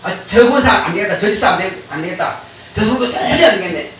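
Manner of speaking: a lightly voiced devil giving up, a touch low; mock-sigh of a beaten devil; defeated devil. 성도를 포기하는 마귀의 힘 빠진 가벼운 목소리. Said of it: "마귀도 포기해야 돼".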